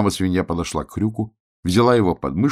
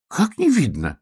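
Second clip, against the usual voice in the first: mild indignant question; 12 semitones higher, slower than usual. A narrator's reading. Hrjuk protests to the dandelion, mildly indignant. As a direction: protest lightly, offended. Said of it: "возмутился Хрюк".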